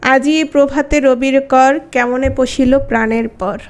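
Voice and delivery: slow recitation of Tagore lines; poem recitation. Shown as a demonstration. Teacher reciting a poem line to show আজি, slow and even. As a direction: recite the verse slowly and evenly. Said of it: "শব্দের শেষে".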